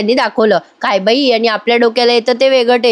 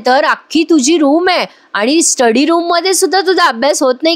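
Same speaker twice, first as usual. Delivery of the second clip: higher-pitched mock scolding of a daughter-in-law; sharp scolding; 4 semitones higher than usual. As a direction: scold her in a raised, exasperated voice. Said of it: "मानिनी ताई तिला भारी उत्तर देतात". (सुनेला रागाने फटकारणारी सासू)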